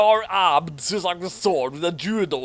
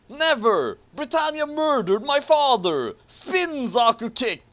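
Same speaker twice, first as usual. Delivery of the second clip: much higher, louder furious yell; defiant hero shout; 10 semitones higher, 4 dB louder than usual. Acted. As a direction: scream it at your father's killer. Hero's defiant reply in story.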